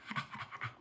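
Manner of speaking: low-volume, breathy little laugh; quiet chuckle at herself; soft chuckle. Real, not acted. Chuckling to viewers after explaining YOLO, soft laugh. Laughs at own slang aside.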